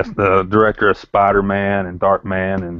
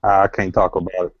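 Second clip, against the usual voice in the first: put-on Tennessee accent. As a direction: stay in Tennessee character. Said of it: "I'm working on my Southern Tennessee accent".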